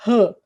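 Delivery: R as a loud, short "huh"; aspirated R, not the letter name; strong R sound. Shown as a demonstration. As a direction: puff R out sharply like an H. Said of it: "dois R's".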